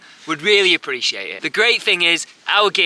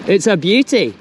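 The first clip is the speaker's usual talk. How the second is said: playful put-on Scottish lilt; Scottish accent; 3 semitones higher, 4 dB louder than usual. Angler admiring his grayling, jokey Scottish accent. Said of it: "Sorry for the Scottish accent there".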